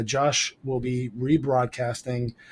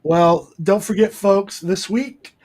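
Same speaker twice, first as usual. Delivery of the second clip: Jay Leno sign-off; 7 semitones higher, 5 dB louder than usual. Retold or imitated. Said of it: "Jay Leno at the end of his show".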